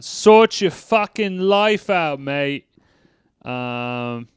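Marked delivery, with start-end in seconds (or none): 0.0-2.7 slow, higher mock telling-off; drawn-out higher mock rant; quoting Peter. Quoting Peter telling someone off, slow and higher. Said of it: "Peter just going".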